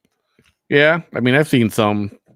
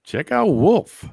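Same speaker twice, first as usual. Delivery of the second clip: wolf voice; 11 semitones higher, much slower than usual. Pretend. Howling at wolf photo.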